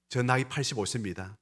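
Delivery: ordinary talk, nothing marked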